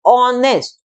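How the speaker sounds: "ऑनेस्ट" said starting on an o sound, no h; silent h. Shown as a demonstration. Teacher demonstrates "ऑनेस्ट" for her students. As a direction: model "ऑनेस्ट" with the h dropped. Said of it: "ऐसे हम बोलते हैं इसको ऑनेस्ट".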